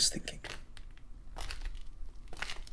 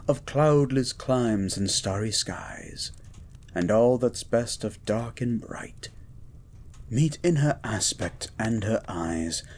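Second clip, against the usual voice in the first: poem recital. Acted. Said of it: "Lord Byron's words".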